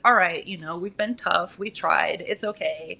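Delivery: low, soft, reassuring; gentle self-comfort. Retold or imitated. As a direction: soothe your own tired body. Comforting her own body.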